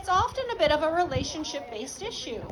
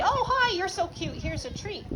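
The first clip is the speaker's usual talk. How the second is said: gushing over dog; 3 semitones higher than usual. Shown as a demonstration. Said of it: "Maybe we just give dogs treats for free".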